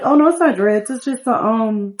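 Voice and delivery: a hint of a girl correcting a compliment; correcting Sim girl. Female Sim correcting him.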